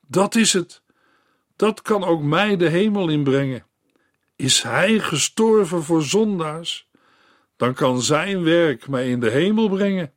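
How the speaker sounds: dying woman grasping the message; hopeful dying woman. Acted. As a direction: catch at new hope. Woman hearing the gospel.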